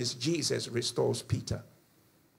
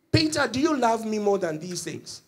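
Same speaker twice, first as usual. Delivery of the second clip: higher-pitched, quicker-flowing question; direct questioning; 6 semitones higher, 3 dB louder than usual. Acted. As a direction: put the question to Peter directly, without drawing it out. Repeats Jesus' question less drawn out.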